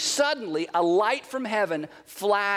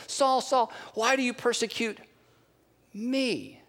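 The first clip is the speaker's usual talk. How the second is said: voice from heaven; 2 semitones higher than usual. Acted. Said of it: "the voice says".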